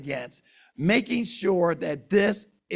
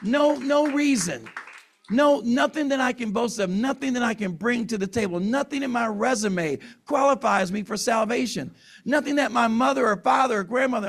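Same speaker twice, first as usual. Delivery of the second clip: fighting back tears; 4 semitones higher than usual. Real, not acted. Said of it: "and I'm trying not to cry".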